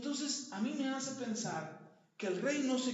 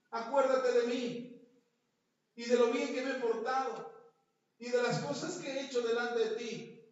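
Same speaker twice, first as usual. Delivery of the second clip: confident prayer; 2 semitones higher, 3 dB louder than usual. Retold or imitated. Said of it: "decirle a Dios".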